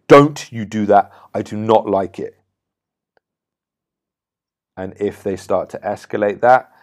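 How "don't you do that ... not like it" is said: short, louder, firm warning; abrupt direct command. Shown as a demonstration. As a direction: cut them off clearly and directly. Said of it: "It's abrupt, it's short, it's direct, it's clear".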